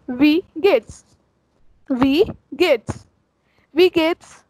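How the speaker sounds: Wie geht's said as vee gayts, clear and careful; German pronunciation demo. Shown as a demonstration. Teacher drilling the basic greeting, clear demo. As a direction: model it for learners. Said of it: "that is".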